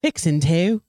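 "fixin' to" in a tried-out British Isles accent; playful stab at an English or Irish accent; attempted English or Irish accent. Shown as a demonstration. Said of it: "do it in an English or Irish accent".

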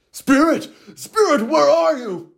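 high anxious calls; calling out. Acted. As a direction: call out into the darkness. Calling out for the ghost.

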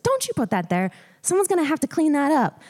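milder imitated scolding with a smile; smiling scold. Sharon telling her off about the gum, smiling mock scold. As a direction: try to scold, but let the smile through. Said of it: "I can't say it without smiling 'cause she never scolded us".

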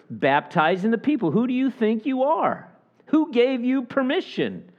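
high, haughty challenge; indignant Pharisee. Retold or imitated. Pharisees challenging John's right to baptize, high and haughty. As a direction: look down on him as a priest would. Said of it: "It's almost like".

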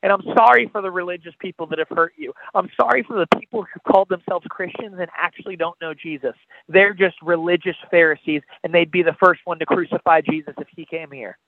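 rising and falling sermon delivery, pressing the listener; altar-call sermon voice; impassioned preaching. Acted. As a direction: preach it straight to the listener's heart.

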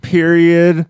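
slow, spelling each symbol out; dictating. Pretend. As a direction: read out each character carefully. Spelling out text emoticon.

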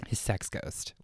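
unvoiced hushed repeat; whisper. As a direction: breathe it as a whisper.

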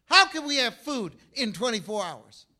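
acted incredulity; incredulous question. Repeats the quoted question, more incredulous.

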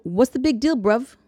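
put-on a light, half-hearted British accent; mock British accent, playing it casual; bad British accent. Recapping the teacher's retort in a so-so British accent. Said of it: "I've offended with my bad accent".

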